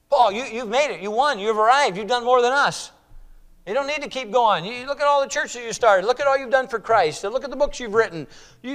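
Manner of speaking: high-pitched, insistent reassurance; animated, coaxing plea; urging Paul to rest. Acted. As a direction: talk an old friend out of carrying on. Pleads with Paul to stop striving.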